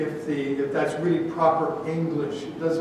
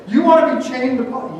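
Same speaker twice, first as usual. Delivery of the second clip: louder, higher disbelieving question; incredulous supervisor; 4 semitones higher, 5 dB louder than usual. Acted. Supervisor to guard asking for shifts with Paul, incredulous.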